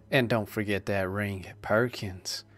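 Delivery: breathy whispered reminder. Acted. Ermengarde reminds Jack of the ring, whispered. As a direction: whisper it close in his ear.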